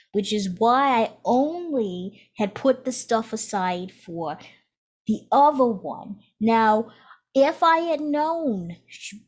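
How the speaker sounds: lightly voiced defensive old ancestor; a hint of a grumbling old relative, unhurried; overheard ancestor. GM voicing a ghostly ancestor arguing over inheritance, defensive. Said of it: "and you overhear".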